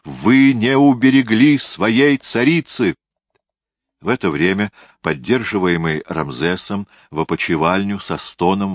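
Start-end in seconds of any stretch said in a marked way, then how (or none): 0.0-3.0 high, loud, slow accusation; acted angry shout. A narrator's reading. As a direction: draw the reproach out in a raised cry. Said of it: "закричал он".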